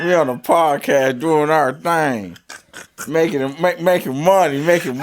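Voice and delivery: put-on swagger through it in a Kansas City player accent. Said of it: "our podcast have an R in it".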